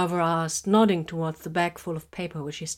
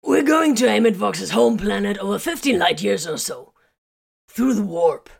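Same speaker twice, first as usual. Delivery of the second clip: louder, raised, disbelieving recap; incredulous; 4 semitones higher, 7 dB louder than usual. A narrator's reading. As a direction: spell it out in disbelief.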